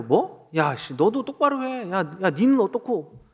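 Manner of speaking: retold indignant snapping back; mock angry retort. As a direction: act out a testy comeback without shouting. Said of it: "화를 똑같이 냈을 거예요".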